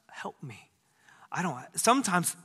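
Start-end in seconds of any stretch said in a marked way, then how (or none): 0.1-0.7 soft whispered plea; whispered prayer. Shown as a demonstration. Preacher showing the congregation how he whispers to God, a soft plea. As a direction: breathe it to God as a secret plea. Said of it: "I just whisper to him at times".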